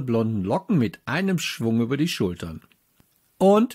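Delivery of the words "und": curt question. A narrator's reading. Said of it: "fragte ich nur".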